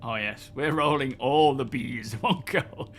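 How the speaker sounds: muffled behind a helmet visor; inside a helmet. Real, not acted. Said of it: "Let me get my helmet back on again".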